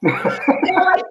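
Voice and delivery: laughs through the words; laughing. Real, not acted. Telling the host her story, laughing as she talks. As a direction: breaks into a real laugh mid-line.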